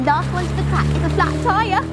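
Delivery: high, fast race call; shouted challenge. Acted. Eco challenging friends to race, fast high shout. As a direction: fling it back over your shoulder. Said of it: "shouted Eco over his shoulder".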